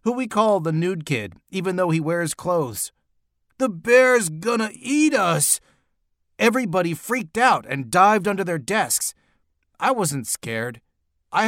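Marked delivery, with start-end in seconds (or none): 3.6-5.6 high, panicky cry; acted cry of panic; shouted. A narrator's reading. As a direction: raise the alarm in a high voice. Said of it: "shouted Neil".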